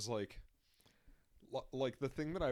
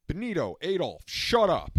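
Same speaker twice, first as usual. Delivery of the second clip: mock exasperated shout; 7 semitones higher, 14 dB louder than usual. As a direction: yell at two misbehaving little kids. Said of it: "the guy turns around and goes".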